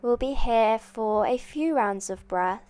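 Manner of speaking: soft, calm instructor voice; guided yoga. Acted. Yoga teacher settling students into child's pose, soft and calm. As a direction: gently talk them into the pose, leaving space.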